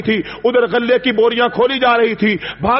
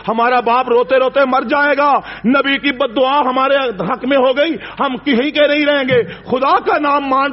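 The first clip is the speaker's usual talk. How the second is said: pleading rises higher and more urgent; desperate plea; 4 semitones higher than usual. Acted. Brothers begging the king for mercy, rising desperate plea. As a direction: beg with growing desperation.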